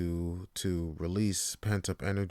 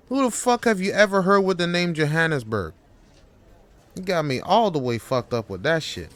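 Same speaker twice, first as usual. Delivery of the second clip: louder, rising rage at the boss; fed-up worker turning on his boss, getting louder; furious employee; 6 semitones higher, 6 dB louder than usual. Acted. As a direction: finally snap and tell him off.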